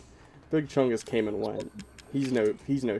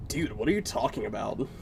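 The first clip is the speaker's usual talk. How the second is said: white guy voice; 2 semitones lower, 3 dB quieter than usual. Retold or imitated. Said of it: "Some white guy shit".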